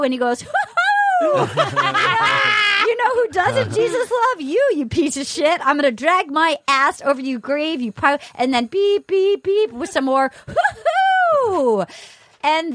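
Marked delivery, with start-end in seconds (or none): 0.4-11.8 Kenny impression. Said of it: "Best impression of Kenny I've ever heard".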